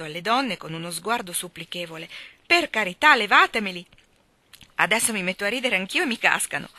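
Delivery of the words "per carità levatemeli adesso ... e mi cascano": pleading laughter-fear. Acted. Laurie begging women to take babies.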